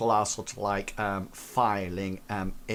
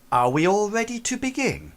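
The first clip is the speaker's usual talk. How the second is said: a hint of a higher android voice; 10 semitones higher, 4 dB louder than usual. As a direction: ask it like the android host. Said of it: "she says to you all, she says".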